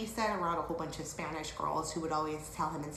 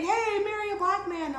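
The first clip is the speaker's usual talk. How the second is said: high, louder imitated yell; mock scream; 12 semitones higher, 5 dB louder than usual. Stranger yelling after her on the scooter, high loud mock scream. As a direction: mimic the heckler's holler. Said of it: "Then he screams".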